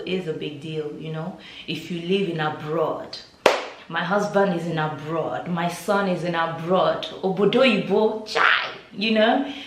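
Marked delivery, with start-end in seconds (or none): 3.9-9.5 louder, boastful mock parent showing off; imitating a proud parent boasting, a bit louder; bragging parent. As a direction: brag like a mother whose family lives abroad. Mimicking proud Nigerian parents.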